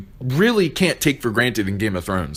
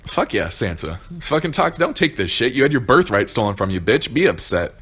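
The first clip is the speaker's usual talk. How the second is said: excited cheering; 3 semitones higher than usual. Retold or imitated. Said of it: "I'm like".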